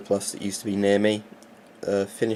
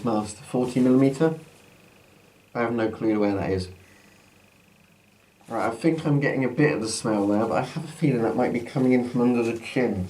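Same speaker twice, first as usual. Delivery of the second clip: muffled behind a gas mask; talking through a mask. Real, not acted. Mask put on at line 40.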